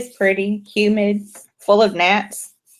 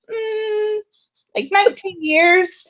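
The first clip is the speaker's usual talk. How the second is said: matter-of-fact; 12 semitones higher than usual. Retold or imitated. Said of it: "I'm like".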